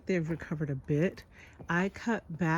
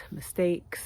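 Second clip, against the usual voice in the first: whispered aside. Real, not acted. Listing garden problems.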